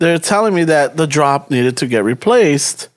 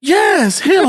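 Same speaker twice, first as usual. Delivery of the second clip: customer's voice; 11 semitones higher than usual. Retold or imitated. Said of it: "She's all like".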